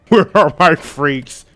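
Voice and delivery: slow, drawn-out call to the crowd; mock hype shout, drawn out slowly; party-night call. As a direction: stretch it out like a party host calling out. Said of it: "Me every Friday night be like".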